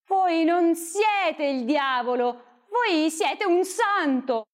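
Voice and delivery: coaxing flattery; flattering. Acted. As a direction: soothe him with flattery. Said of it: "per adularlo e ammansirlo meglio".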